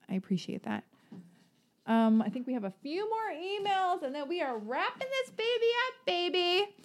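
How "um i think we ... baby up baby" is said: high, soft sing-song put-on voice; sing-song announcement. Host telling listeners the show is wrapping up, sing-song. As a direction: pitch it way up and draw out the last word.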